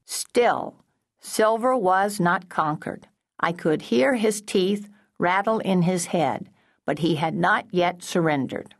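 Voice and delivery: measured, mildly mechanical read-aloud. A narrator's reading. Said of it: "read out loud in a mechanical voice".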